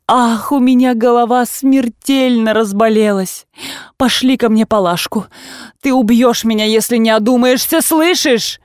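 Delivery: a hint of an aggrieved mother, complaining and reproachful; mildly voiced lament of a wounded mother; lightly voiced mother. Mother reproaches her daughter Liza, lightly voiced and aggrieved. Marya Dmitrievna scolds Liza.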